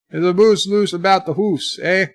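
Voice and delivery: mild mock Canadian accent; put-on Canadian. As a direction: ease back into a playful Canadian "hoose, eh". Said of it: "that was my Canadian".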